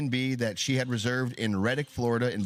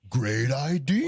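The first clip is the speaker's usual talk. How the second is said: drawn-out, louder mock approval; slow sarcastic praise; 4 dB louder, much slower than usual. Mocking the would-be colonizers, slow sarcasm. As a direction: drag it out sarcastically. Sarcastic reply to Haiti plan.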